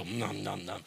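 soft, quick munching sounds; a little kid savouring a bite; eating noise. Shown as a demonstration. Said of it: "our mouth can't help but, but just go".

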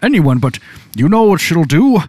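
put-on slow, whiny child begging not to tell mom; a kid pleading, dragging the words. Child dreading mom in sketch.

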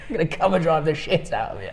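mock callout. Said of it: "And he's like".

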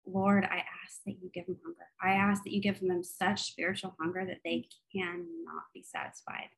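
earnest spoken prayer to God. Acted. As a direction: pray it sincerely for the listeners. Leads a closing prayer.

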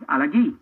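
Alagui ending in a clean hard "ghee"; correct pronunciation. Shown as a demonstration. Commentator showing the correct name, Alagui as "ala-GHEE". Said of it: "It's Farid El Alagui".

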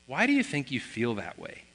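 quiet, careful probing; retold gentle question. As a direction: ease off and ask him tenderly. Dad stops reasoning, gently asks son.

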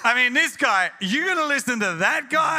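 a mocking friend shouting in disbelief; incredulous shout. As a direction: shout down the idea of listening. Cynical buddy mocks the fishermen.

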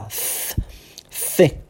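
soft th hiss, tongue between teeth; voiceless th before thinking. Shown as a demonstration. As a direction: blow a soft th. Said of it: "vou falar a palavra thinking".

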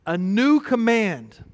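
solemn slow restatement; slow emphatic echo. Shown as a demonstration. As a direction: dwell on a new command.

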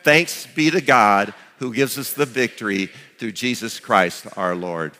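slow, measured unison reading; slow recitation. Shown as a demonstration. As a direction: recite it slowly, falling at the end. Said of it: "One more time".

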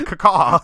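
loud, high mock bird caw; raven caw. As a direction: caw like a raven, dropping at the end. Repeats raven cry in hashtag.

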